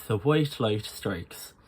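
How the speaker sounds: slow Irish "white light strikes", vowels between I and OY; Irish I sound. Shown as a demonstration. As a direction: round the I's halfway to OY, Irish style. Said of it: "just a little bit in the middle".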